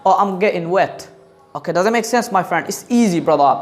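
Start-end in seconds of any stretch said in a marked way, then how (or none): 0.1-1.0 British "getting" as "ge'in", no t; British pronunciation. Shown as a demonstration. Teacher showing how British people say it, "getting" as "ge'in". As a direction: swallow the t and g in "getting". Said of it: "ওরা বলে".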